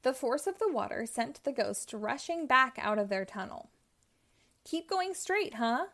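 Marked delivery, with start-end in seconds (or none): 4.6-5.9 higher, mock-angry yell; sarcastic outburst at a friend; hammed-up cartoon scream; screaming at Pinky. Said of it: "Inky screamed at Pinky".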